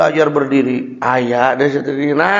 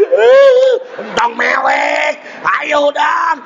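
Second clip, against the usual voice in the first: coaxing parent; 8 semitones higher, slower than usual. Retold or imitated. Calming crying baby.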